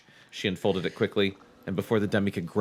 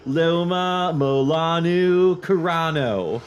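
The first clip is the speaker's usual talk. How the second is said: put-on Baltimore accent; 6 semitones higher, 6 dB louder, slower than usual. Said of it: "I wanna read it in a Baltimore accent".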